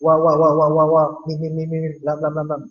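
mocking babble of syllables; wa wa mim lam babbled, fading; muffled wah wah talk. Shown as a demonstration. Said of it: "Ngejek ya". (ocehan wa wa mengejek)

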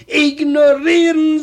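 Ignorieren repeated loudly so she hears it. Retold or imitated. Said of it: "was, sagt sie?".

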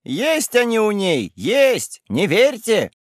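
high, slow accusing cry; shouting. A narrator's reading. Galka shouts at the men not to believe her aunt. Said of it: "Галька закричала".

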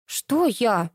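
stern. A narrator's reading. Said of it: "сурово перебила Галину Лялечка".

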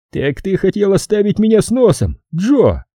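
high-pitched, resentful reproach; seething accusation. A narrator's reading. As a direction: accuse him through gritted teeth. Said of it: "процедил Фаулер". (процедить с обидой и злостью)

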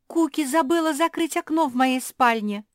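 high, loud shrill complaint; complaining sister. A narrator's reading. Zefirka complains loudly across the garden. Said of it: "голос Зефирки".

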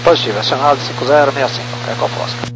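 over a crackly radio; radio transmission. Real, not acted. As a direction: talk like on an aircraft radio. Pilot readback over radio.

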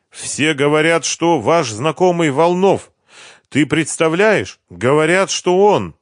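high, breathless neighbor's chatter; excited gossip. A narrator's reading. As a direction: spill the news, all wound up. (соседка взахлёб пересказывает Маше новости по телефону)

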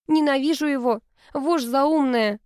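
slow, seething words through gritted teeth; slow gritted-teeth hatred. A narrator's reading. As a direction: spit it out slowly between clenched teeth. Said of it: "процедила сквозь зубы Алла".

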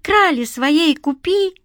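put-on high, drawn-out child's plea; cheeky street kid wheedling; slow, whiny sales pitch; begging boy. A narrator's reading. Beggar boy pleading in the story.

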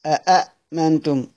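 slow أأمنتم with two separate hamzas; original form. Shown as a demonstration. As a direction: stretch out أأمنتم, both hamzas distinct. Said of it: "أصلها كذا". (نطق أأمنتم ببطء بهمزتين)

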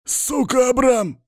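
high, strained wheezing curse; hoarse hiss. A narrator's reading. Bound captive cursing his rival Abram in a strained wheeze. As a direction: spit the curse out in a strangled wheeze. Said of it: "сипит Ашотик".

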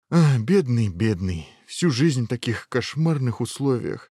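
mildly sobbing commiseration; tearful pity. Acted. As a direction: lament such an awful life. Prince wails in pity.

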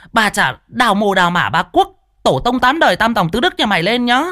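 screaming curse. Acted. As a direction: hurl abuse at the thief's family, nonstop. Neighbour's cursing tirade. (chửi rủa the thé, giận dữ)

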